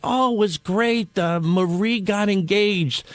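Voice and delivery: slow, drawn-out gossip reply; unhurried, stretched-out retold voice; counter lady. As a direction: lightly imitate a diner waitress sharing news. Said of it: "lady behind the counter".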